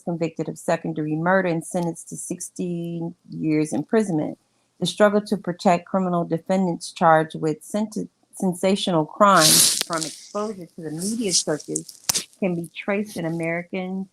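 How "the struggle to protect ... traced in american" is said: muffled. Real, not acted. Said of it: "you sound like you're muffled".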